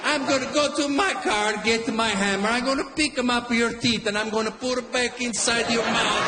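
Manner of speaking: a hot-headed Italian father threatening the line-cutter; Italian dad. Retold or imitated. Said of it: "always comparing himself".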